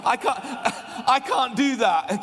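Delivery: high laughing cry of defeat. Real, not acted. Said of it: "some people are going like this".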